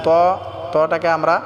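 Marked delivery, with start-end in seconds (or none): 0.1-0.1 ত said full-mouthed and heavy. Shown as a demonstration. Teacher showing learners the heavy letter, ত said full. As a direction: round and thicken ত. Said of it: "পুর করে উচ্চারণ করব".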